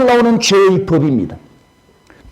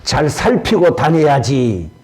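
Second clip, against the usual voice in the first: scolding; 3 semitones lower, slower than usual. Retold or imitated. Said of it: "아들을 보고 나무랍니다".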